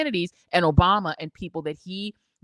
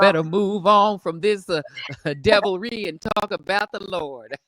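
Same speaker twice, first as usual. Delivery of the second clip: Bible app voice; 6 dB louder than usual. Retold or imitated. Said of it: "it said".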